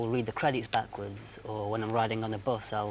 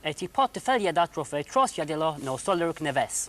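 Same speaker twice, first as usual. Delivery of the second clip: backwards talking; 4 semitones higher, 4 dB louder than usual. Acted. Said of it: "Zarb backwards talking".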